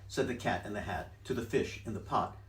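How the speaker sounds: ordinary delivery, nothing marked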